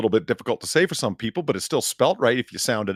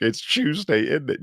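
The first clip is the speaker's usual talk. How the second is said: mild mock-British "Chewsday, innit"; a hint of British accent; British meme quote. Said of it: "that's the meme joke".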